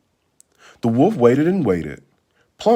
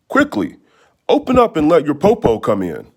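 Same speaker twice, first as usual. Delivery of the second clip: a touch of sly urging, higher; cunning wolf; 5 semitones higher than usual. Acted. Wolf coaxes the children to open up, slyly. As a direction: coax them to open the door. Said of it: "the cunning wolf said".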